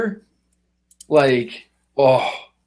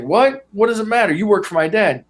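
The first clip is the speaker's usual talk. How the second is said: put-on higher, indignant spoiled kid; spoiled son pulling rank on the shop owner; indignant mob son; 6 semitones higher than usual. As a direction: act offended that anyone would question him. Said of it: "And he's like".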